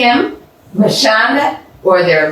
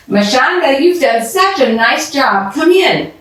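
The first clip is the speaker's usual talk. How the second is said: higher, lightly voiced pleased neighbour; cheerful Mrs Kim; 7 semitones higher than usual. Mrs Kim welcoming Mashonda at the door, pleased voice. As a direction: brighten up to greet the girl at the door.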